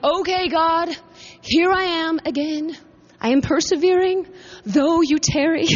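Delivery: lightly hammed-up, put-upon persistence; mildly mad. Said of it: "this time I'm really kind of mad".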